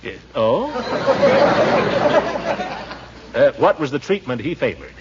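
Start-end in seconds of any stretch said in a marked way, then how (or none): 0.8-3.0 high rolling chuckle. Acted. Uncle amused by the maid's husband story, high rolling chuckle.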